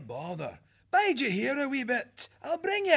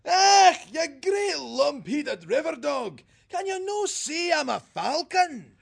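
much higher, Scottish, indignant squawk; a falcon scolding the otter who shot at him; shrill angry falcon; 11 semitones higher, 6 dB louder than usual. Acted. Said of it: "shrilling out angrily".

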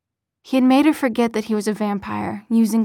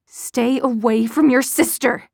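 warning; 2 semitones higher, 4 dB louder than usual. Acted. Mother protecting daughter.

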